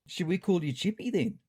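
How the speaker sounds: Ron teasing. A narrator's reading. Ron to the cat leader, teasing with wordplay. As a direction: toss out a whimsical pun in character. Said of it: "Ron giggled at his own whimsical wordplay".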